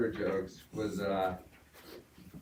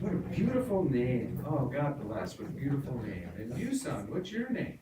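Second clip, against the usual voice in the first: higher, gushing preacher; 4 semitones higher than usual. Pretend. Preacher praising the name and turning to the boy, a touch high. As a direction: fawn over the name. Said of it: "He said".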